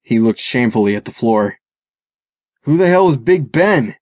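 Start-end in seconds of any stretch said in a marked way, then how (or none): 2.6-4.0 higher-pitched, irritated challenge; mild growl. A narrator's reading. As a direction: demand an answer with a touch of menace. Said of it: "Tim growled".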